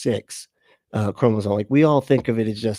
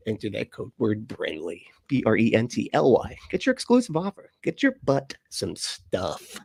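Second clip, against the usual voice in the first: upbeat sponsor pitch; ad read; 3 dB quieter than usual. Acted. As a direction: rattle off the offer like a commercial.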